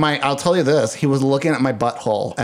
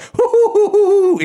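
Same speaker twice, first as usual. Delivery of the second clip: high, loud laughing hoo hoo; a giddy imitated laughing fit; giggling hoots; 5 dB louder than usual. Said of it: "I was like".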